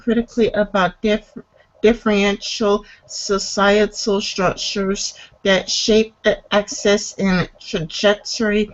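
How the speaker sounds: careful, halting read-aloud; article reading. Real, not acted. Host reading a class description aloud, measured. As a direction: read it out evenly, phrase by phrase.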